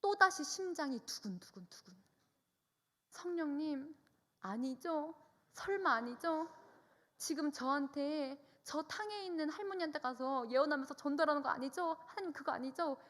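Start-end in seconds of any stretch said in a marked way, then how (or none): 3.1-13.0 high, earnest plea to God; pleading. Retold or imitated. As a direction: beg like a child caught out. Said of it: "정말 애절하게 주님께 말했습니다". (애절하게 간청하듯)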